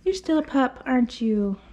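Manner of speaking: high sing-song to the pup; doggy talk. Real, not acted. Groomer telling the dog he's still a pup, high and fond. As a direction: tease the puppy fondly.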